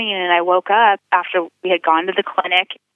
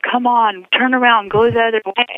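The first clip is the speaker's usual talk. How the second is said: higher, mildly urgent retold plea; urgent pleading; 4 semitones higher than usual. Girlfriend pressing boyfriend to turn the car around, urgent. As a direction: urge him to turn around, pitched up.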